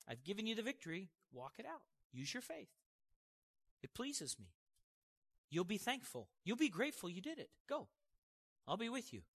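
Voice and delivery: softly spoken, coaxing reassurance; acted tender, soft-voiced God; gentle encouragement. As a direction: quietly urge a child onward. Voices God gently urging a believer.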